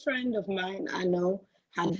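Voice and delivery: faint voice on the line; faint, slightly softened phone voice. Real, not acted. Caller retelling a friend's story to the host, very faint. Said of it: "Your voice is kind of very faint".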